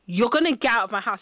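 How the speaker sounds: calm, measured retold order; said calmly, at an everyday volume; calm retelling. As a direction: retell the order without raising your voice. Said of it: "the way I'm doing it calm".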